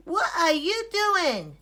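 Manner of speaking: a duck asking curiously. A narrator's reading. Duck asks Ilyas what he is doing, chirpy. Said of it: "asked Duck".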